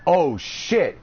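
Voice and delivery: half-hearted paranoid voice; mock paranoid. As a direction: replay the stoned worry lightly. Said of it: "I was all paranoid".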